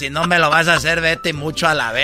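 Gilbertona voice. Acted. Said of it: "la Gilbertona".

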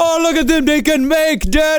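patronizing gush. Retold or imitated. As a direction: coo over them like pets.

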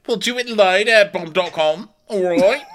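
high, loud laughing showman; mock Kyle. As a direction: toss it off with a laugh. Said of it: "he's like".

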